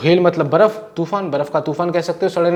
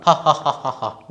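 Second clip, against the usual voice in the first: mock laugh demo; slower than usual. Shown as a demonstration. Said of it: "noisy laughter".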